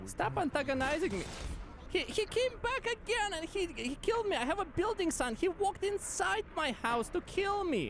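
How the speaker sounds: high-pitched cartoon voice; cartoon character voice. Real, not acted. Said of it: "you sound like a damn cartoon character".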